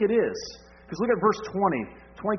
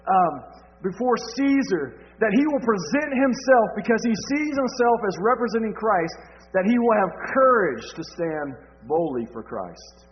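fervent preaching; 6 semitones higher, 5 dB louder, slower than usual. Acted. Preaching building to full force.

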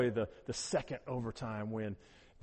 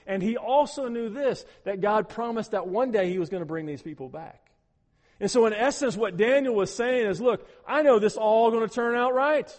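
rising preacher's fervour, louder; preaching; 7 semitones higher, 9 dB louder than usual. Acted. Preacher tells congregation God is in control, fervent preaching. Preacher builds about Daniel's trust.

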